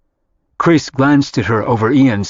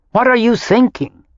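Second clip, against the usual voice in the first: horrified mother; 12 semitones higher than usual. A narrator's reading. Horrified mother questions daughter.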